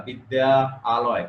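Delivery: বিদ্যা and আলয় said apart with a break between; split into two words. Shown as a demonstration. Teacher shows students the awkward split form, said in two parts. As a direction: pronounce "বিদ্যা আলয়" as two separate words, not joined. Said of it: "উচ্চারণ করতেও কেমন আলাদা আলাদা".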